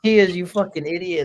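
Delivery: high, loud mock yell from an angry mom; mom yelling at son. Mom yelling at her son over missing tortillas, mock furious shout. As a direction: shriek it like a fed-up mother. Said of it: "And she goes".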